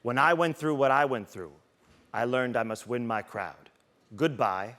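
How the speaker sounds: measured, solemn advice with heavy pauses; lightly voiced grave mentor; Ray Lewis. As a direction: hand down wisdom line by line. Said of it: "He goes".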